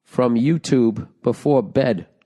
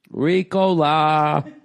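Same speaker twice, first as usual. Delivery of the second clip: slow, drawn-out Ricola; sing-song it like the old ad; mock Ricola commercial call; much slower than usual. Mimicking the cough drop ad.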